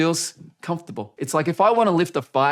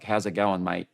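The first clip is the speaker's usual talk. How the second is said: lazy mumble; 7 semitones lower, 6 dB quieter than usual. Shown as a demonstration. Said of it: "doing it really lazy".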